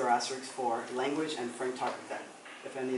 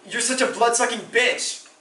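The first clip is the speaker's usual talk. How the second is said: mild mock yell, pitched higher; retold parental scream; 10 semitones higher, 11 dB louder than usual. Child quoting parents' fights, restrained retold scream. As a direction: lash out as a quarrelling parent, held back. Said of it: "never scream things like".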